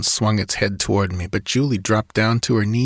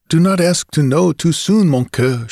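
a lightly voiced young Creole woman, higher; a hint of a coaxing lover silencing him; Julie gently commanding; 7 semitones higher, 4 dB louder than usual. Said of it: "she bade".

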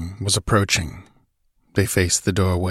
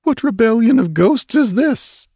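high-pitched, affronted puzzlement; bewildered muttering; 4 dB louder than usual. A narrator's reading. Stranger reeling back from a blow, muttering in bewilderment. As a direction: question it in a high, clouded daze. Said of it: "he muttered".

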